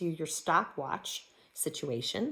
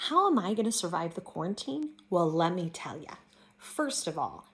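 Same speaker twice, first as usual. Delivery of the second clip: lightly voiced chatty character; a hint of an eager coffee lover; character monologue; 3 semitones higher than usual. Teacher performing a sample quarantine monologue. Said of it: "I'm gonna speak as a character".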